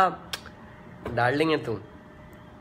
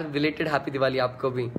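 softer and slower "belated happy Diwali" as a sincere thank-you; soft slow reply; 3 semitones lower, 4 dB quieter, slower than usual. Real, not acted. Singer wishing a fan back, soft and unhurried. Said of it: "lots of love to you too छवि शर्मा यार".

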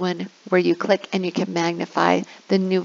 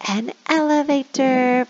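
higher, bright model answer; teacher answer voice; 5 semitones higher than usual. Shown as a demonstration. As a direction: answer for the kids cheerfully. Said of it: "where you say".

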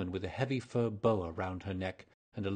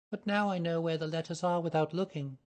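put-on higher, earnest young woman's voice; nervous young lady; 8 semitones higher than usual. A narrator's reading. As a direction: voice her as an eager, flustered client. Mary Sutherland voiced by narrator.

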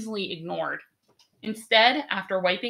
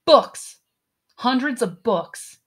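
higher, much louder burst of wonder; amazed gasp; 4 semitones higher, 6 dB louder than usual. A narrator's reading. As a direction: gasp with delight at the treasure. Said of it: "I gasped".

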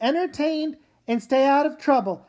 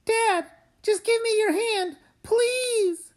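high, tearful pleading; pleading crying; 7 semitones higher than usual. Acted. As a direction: beg through tears. Daughter begs trapped father.

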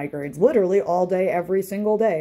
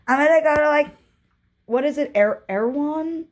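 airy mock valley-girl voice; rich girl voice; 7 semitones higher than usual. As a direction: play the spoiled rich girl heading to Erewhon. Rich girl voice naming store.

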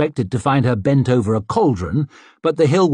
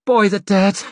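grunted; 9 semitones higher, 3 dB louder than usual. Acted. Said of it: "grunted Isern".

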